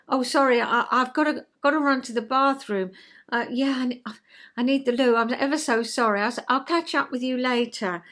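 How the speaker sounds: a flustered colleague fumbling an excuse to flee a chatterer; flustered scripted excuse. Shown as a demonstration. Gabbling sorry, sorry, I need the loo. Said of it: "I've done it in a scripty way".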